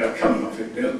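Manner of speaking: re-enacted high-pitched brush-off; mock disbelief. Retelling his reply to a suspected prank caller, disbelieving.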